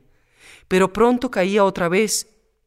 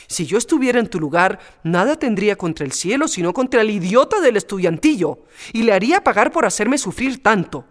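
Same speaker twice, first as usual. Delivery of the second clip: put-on a fierce old nurse ready to fight; Antoñona indignant. Maid threatening to drag don Luis back, indignant.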